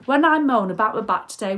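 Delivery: promising her viewers she will change; emphatic promise. Shown as a demonstration. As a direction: lean on it as a vow. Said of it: "I promise".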